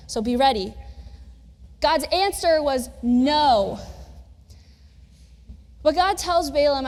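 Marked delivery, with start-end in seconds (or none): 1.8-3.8 slow, deliberate. Shown as a demonstration. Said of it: "I'm gonna do that several times".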